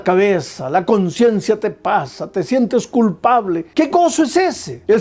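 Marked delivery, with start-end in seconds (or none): 3.7-4.8 pitched higher, mocking the joy of the world; scornful question. Real, not acted. Preacher to the young congregation, a light scornful challenge. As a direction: lightly scoff at that so-called joy.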